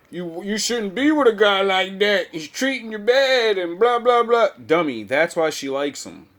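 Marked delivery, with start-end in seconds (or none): 0.1-4.5 mock nice-guy advice. Mocking the beta friend's advice.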